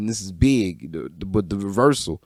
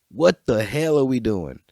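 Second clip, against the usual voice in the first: whisper; 2 semitones higher than usual. Real, not acted. Despairing aside after rant.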